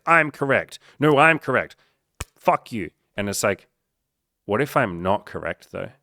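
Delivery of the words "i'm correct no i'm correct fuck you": loud, high back-and-forth yelling; mock shouting match. Left and right voters yelling at each other, mock angry shouting. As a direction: play both sides shouting each other down. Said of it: "scream at each other and be like".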